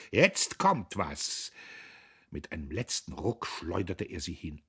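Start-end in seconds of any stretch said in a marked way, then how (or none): 0.1-1.5 loud, drawn-out, effortful words; panting threat. A narrator's reading. Man repeats his threat mid-struggle, panting. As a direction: heave it out slowly. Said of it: "keuchte er".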